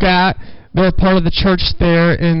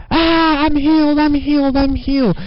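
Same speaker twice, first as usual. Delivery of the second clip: retold joyful scream; 6 semitones higher than usual. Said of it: "she starts screaming".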